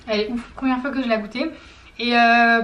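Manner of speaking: words round a mouthful of pasta; chewing while talking. Real, not acted. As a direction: talk with your mouth full. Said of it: "parler la bouche pleine".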